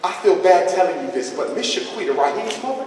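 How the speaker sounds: a hint of hushed gossiping teacher; lightly voiced teacher. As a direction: play the teacher confiding in the principal. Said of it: "She go right to the principal office".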